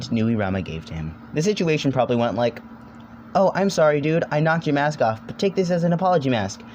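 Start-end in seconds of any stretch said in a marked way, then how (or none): 3.4-6.6 fake apologetic creature. Nuirama voiced apologizing.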